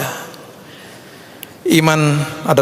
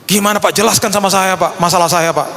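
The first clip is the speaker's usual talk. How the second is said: lightly imitated pleading, pitched higher; pleading inquirer; 6 semitones higher than usual. Congregant asking the pastor to explain their problem, lightly mimicked pleading. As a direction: mimic someone pestering for an explanation. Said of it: "Banyak orang tanya sama saya".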